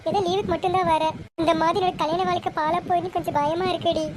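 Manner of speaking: mildly tearful, worried pleading. Acted. Sister fears for her married life, tearful. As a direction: confide the worry as if near tears. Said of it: "அக்கா அழுகாத".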